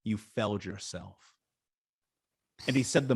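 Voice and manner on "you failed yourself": calm and chill. Retold or imitated. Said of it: "He's, like, so chill about it".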